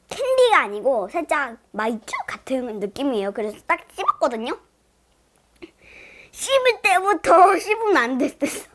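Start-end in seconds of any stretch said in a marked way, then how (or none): 6.3-8.7 half laughing, half whimpering; laughing through it. Real, not acted. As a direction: laugh out the regret. Regrets chewing the sour candy.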